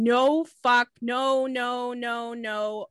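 understated retold scream of protest. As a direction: imitate her screaming without really screaming. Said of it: "she's screaming".

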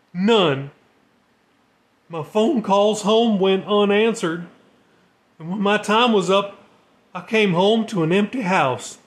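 a broken man pouring out his story; shaky voice. Acted. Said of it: "his voice shaky".

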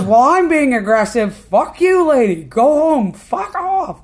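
loud, high-pitched cursing retort; acted-out belligerent outburst; openly aggressive. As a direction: shout them off angrily. The speaker keeps cursing at the lady.

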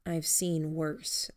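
measured, grave delivery; serious low tone. Acted. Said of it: "I said in that same tone".

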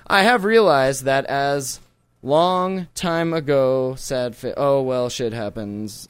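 a slow, lightly robotic reading; anxious butler robot. Pretend. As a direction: read it like a nervous robot butler. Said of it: "Can you read this in a robot voice for us?".

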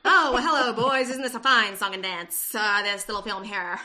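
hammy vintage radio announcer; 1940s radio announcer. Acted. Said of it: "That is my nineteen forties radio announcer voice".

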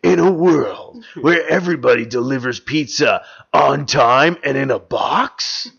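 slow, loud trailer narrator; movie trailer voice. Pretend. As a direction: boom it out like a film trailer.

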